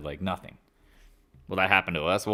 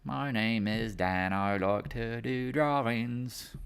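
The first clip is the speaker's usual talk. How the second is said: mock dopey voice; 5 semitones higher, much slower than usual. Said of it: "here's my drawing".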